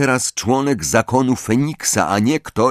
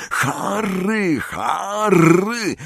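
a far-off, raised call of a name, higher; distant urgent call; 10 semitones higher, much slower than usual. Acted. Ron calling Harry out of a nightmare, distant and urgent. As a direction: call him as if from far away.

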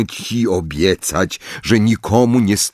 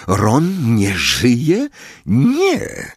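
slow, dazed, then a sudden high cry of no; shocked denial rising high; stunned disbelief; 3 semitones higher, much slower than usual. Acted. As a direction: reel from the news. Harry's shocked thought.

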